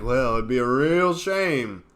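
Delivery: a hint of a mob boss leaning on someone; lightly voiced gangster menace; mock mafia threat. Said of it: "Those are the mafia tactic".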